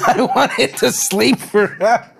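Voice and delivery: giggling through a melodramatic line; cracking up mid-line; laughing through the line. Acted. Friend rereads the line while laughing at it.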